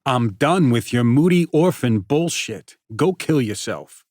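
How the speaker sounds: loud, high, fast taunting rant; bully mocking a hurt friend; cruel tirade. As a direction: tear him apart, enjoying it.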